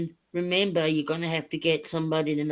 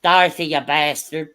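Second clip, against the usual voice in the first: Dorothy impression; 5 dB louder than usual. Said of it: "every five minutes I'll go".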